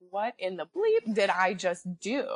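slowed, teary panic, imitating herself crying; half-sobbed shock at her own choice; mild retold crying; tearful disbelief. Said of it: "start bawling my eyes out".

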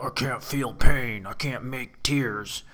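slow, brooding tough-guy put-on voice; movie burnout. Playing a movie tough guy who can't cry, brooding burnout. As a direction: drag out each line like a hardened burnout. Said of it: "a burnout".

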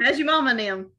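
easygoing Southern accent; Southern American accent. Shown as a demonstration. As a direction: run it together like a Southerner. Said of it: "especially Southern, Southerners, we're, like, constant skipping".

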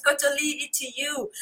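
normal talking voice

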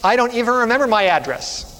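high, acted child's wail; high, mock-tearful child; crying little girl. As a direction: play a little girl owning up through tears. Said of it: "And she was crying".

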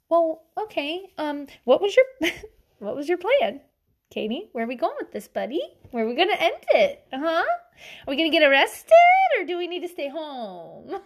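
lilting mock-patient questioning; gentle questioning. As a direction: ask like a friend humouring a wild plan. Acting out friends' careful questions.

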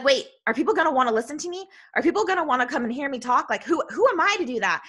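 quick, mildly fretful questioning; lightly dramatized worry, questions tumbling out; retold self-doubt. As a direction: act out rushed second thoughts. Acting out her past self-doubt.

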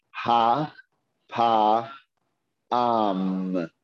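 Ha, pa, am with a pause after each syllable; sounded out slowly. Shown as a demonstration. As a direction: spell it out slowly, one syllable at a time. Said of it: "Each letter slowly".

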